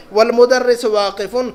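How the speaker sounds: والمدرس واقفن read slowly, with a rise at the end; the teacher repeats the Arabic for the class, slowly and deliberately; slow Arabic model reading. Shown as a demonstration. Teacher repeating Arabic for students, slow model reading. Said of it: "تو الولد جالسن".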